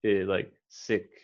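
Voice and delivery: "Eh" with a short schwa, slow; schwa vowel. Shown as a demonstration. Tutor models the schwa for the student. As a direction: model the schwa sound slowly. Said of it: "I would say it more like the schwa".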